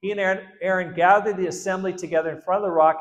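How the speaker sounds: ordinary talk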